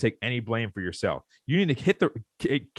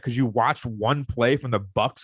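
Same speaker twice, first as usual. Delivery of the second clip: retorting. Retold or imitated. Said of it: "I'm like".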